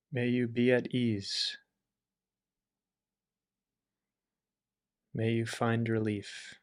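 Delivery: calm, measured well-wishing between long silences; guided meditation. Acted. Leads compassion wishes in meditation.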